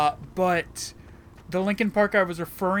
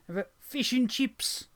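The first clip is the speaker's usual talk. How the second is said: higher-pitched mock Cockney; 5 semitones higher, 3 dB quieter than usual. Shown as a demonstration. Player hamming it up for a friend, mock Cockney. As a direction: toss it out in cartoonish Cockney. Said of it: "in a very Cockney voice?".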